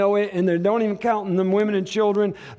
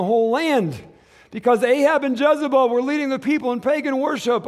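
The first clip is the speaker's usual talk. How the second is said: raised, higher-pitched preacher's storytelling; forceful preaching; 6 semitones higher, 4 dB louder than usual. Real, not acted. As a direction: preach the story with driving energy. Preacher retells Elijah story forcefully.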